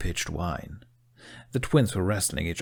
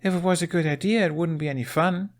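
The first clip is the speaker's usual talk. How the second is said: wise; 10 semitones higher, 3 dB louder than usual. A narrator's reading. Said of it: "Astrid said wisely".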